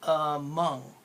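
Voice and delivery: "Among" with the "a" barely opening the mouth; mouth demo. Shown as a demonstration. Teacher showing mouth movement to students, "Among" demo. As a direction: show the lazy "a" in "Among". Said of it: "Watch my mouth".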